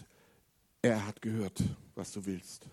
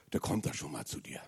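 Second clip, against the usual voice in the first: whisper; 11 semitones lower, 7 dB quieter than usual. Acted. Unvoiced whisper in sermon.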